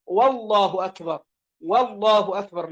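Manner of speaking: والله أكبر, a waw stuck on the front; added initial waw. Shown as a demonstration. Teacher shows how not to begin prayer, saying والله with leading waw. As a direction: open الله with "wa", as "wallahu akbar". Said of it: "وألا يزيد واوا قبل الجلالة".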